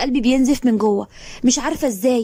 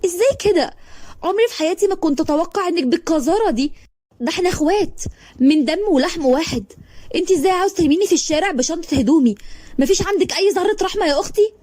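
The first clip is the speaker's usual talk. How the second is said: much higher, tearful pleading; holding back tears; 6 semitones higher than usual. Acted. Thrown-out sister begs her sister, tearful and high. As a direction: plead through tears that won't stop. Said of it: "وانا مش قادره امسك دموعي".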